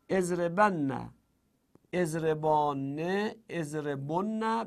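«اضربن، اضربانه، اضربن» said slowly, each form apart; slow conjugation drill. Shown as a demonstration. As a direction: recite the forms slowly for the class. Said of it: "صرف کن اضرب رو". (صرف کردن آهسته و شمرده)

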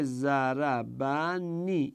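"ضربنی" drawn out slowly by syllables; linking nun demo. Shown as a demonstration. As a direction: slowly sound out "ضربنی", kasra carried on the nun. (تلفظ شمرده و کشیدهٔ «ضربنی» با کسرهٔ نون)

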